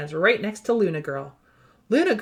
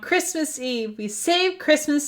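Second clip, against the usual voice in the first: closing cheer; 6 semitones higher, 4 dB louder, slower than usual. A narrator's reading.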